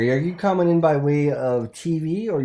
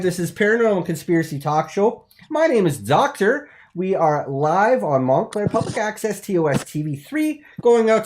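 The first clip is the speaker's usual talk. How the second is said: louder, higher TV host patter; cheesy host intro; 4 semitones higher, 4 dB louder than usual. Acted. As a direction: public access host announcing his show.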